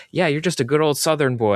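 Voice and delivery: lightly mock a good old Southern boy accent. Retelling the casting director's line, in a mock Southern accent. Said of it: "and he does the accent".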